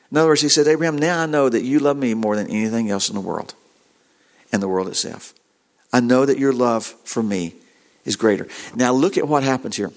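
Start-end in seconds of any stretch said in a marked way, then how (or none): 0.7-8.5 low, gently lowered voice; tender reassurance. Acted. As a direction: drop low and reassure him of what you know. God speaks lovingly to Abraham.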